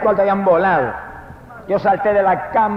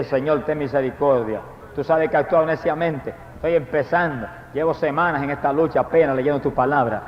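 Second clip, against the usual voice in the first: lower, softer contrite prayer; humble plea; 5 semitones lower, 5 dB quieter than usual. Retold or imitated. Kneeling man praying to the Lord, soft and contrite. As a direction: beg quietly on your knees. Kneeling, begging God for mercy.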